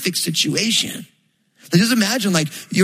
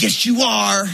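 indulgent God; 5 semitones higher, slower than usual. Retold or imitated. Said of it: "He's like".

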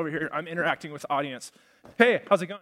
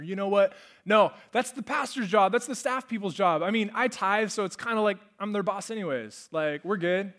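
dismissive excuse; 2 semitones higher than usual. Acted. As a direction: brush the job off onto someone else. Voices a church member's excuse.

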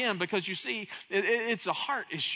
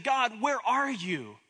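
pleading cry; 4 semitones higher, 3 dB louder than usual. Acted. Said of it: "crying out".

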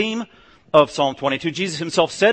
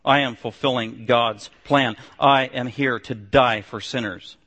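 solemn declaration; 6 semitones lower, slower than usual. Retold or imitated. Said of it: "a declaration on Jesus".

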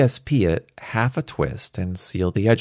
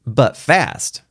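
put-on higher, gleeful boy's agreement; Robert; 6 semitones higher, 4 dB louder than usual. A narrator's reading. Boy agreeing with Star, chortling lightly. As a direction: chime in with a touch of glee. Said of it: "Robert chortled in agreement".

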